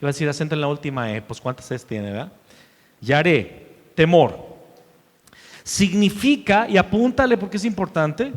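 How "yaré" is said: Yaré said with the stress on the final E, ya-RÉ; a teacher's slow Hebrew word, Yaré stressed on the end; pronunciation demo. Shown as a demonstration. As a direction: carefully sound out Yaré, landing the stress on the last syllable. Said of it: "con Y y acento en la E".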